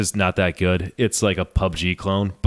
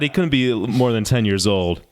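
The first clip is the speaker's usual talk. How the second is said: ordinary delivery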